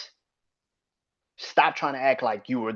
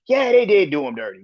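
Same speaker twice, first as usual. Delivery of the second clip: mocking fans; 6 semitones higher, 5 dB louder than usual. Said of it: "Now it's".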